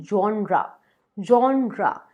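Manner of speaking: जॉनरा said "zhon-ra" with an open o; "जॉनरा" not "जेनर"; correct genre. Shown as a demonstration. Teacher tells viewers to say "जॉनरा", open o. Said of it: "पढ़ते हैं जेनर, जो कि गलत है".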